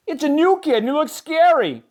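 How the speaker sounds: high, loud alarmed fish; frightened cry. A narrator's reading. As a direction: panic at the stranger. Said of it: "cried Joey Mackerel".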